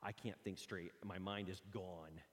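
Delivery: dazed. Retold or imitated. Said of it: "you're just like".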